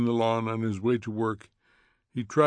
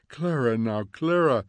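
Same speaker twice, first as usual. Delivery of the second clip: begging; 4 dB louder than usual. Acted. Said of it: "begged Mildred".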